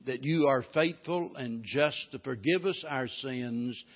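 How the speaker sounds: earnest prayer to God, steady and unhurried; a pastor leading the church in prayer; closing prayer. Acted. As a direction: pray it on behalf of the congregation.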